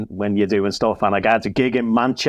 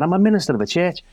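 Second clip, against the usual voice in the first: retold blurt; 7 semitones higher, faster than usual. Repeats line to pub crowd.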